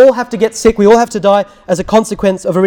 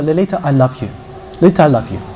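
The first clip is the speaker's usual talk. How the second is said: low, soft declaration; quiet, sincere affection; tender bedside voice; 6 semitones lower, 5 dB quieter, faster than usual. Retold or imitated. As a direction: say it gently to someone dying. Tender last words at bedside.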